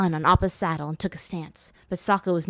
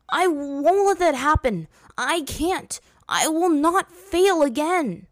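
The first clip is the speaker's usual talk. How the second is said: much higher and louder, slow last line; angry protest; 9 semitones higher, 5 dB louder, slower than usual. A narrator's reading. Aang protesting to Roku, angry and loud. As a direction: push back hard, refusing to fail. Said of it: "Aang protested angrily".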